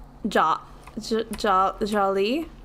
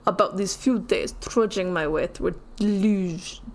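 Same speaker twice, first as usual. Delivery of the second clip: fake Russian accent. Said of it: "That accent was all over the place".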